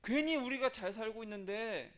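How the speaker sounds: mock accusing crowd, pressing the blame; resentful blaming. People blaming Moses and Aaron, acted resentment. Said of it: "막 원망을 합니다".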